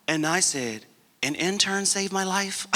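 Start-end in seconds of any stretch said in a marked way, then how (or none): 1.2-2.7 higher-pitched, incredulous question; amazed disbelief. Retold or imitated. Former patient learns his therapist was an intern, amazed. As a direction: echo the news back in astonishment.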